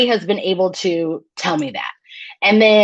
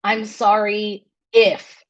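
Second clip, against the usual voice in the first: fake apology; slower than usual. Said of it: "it was".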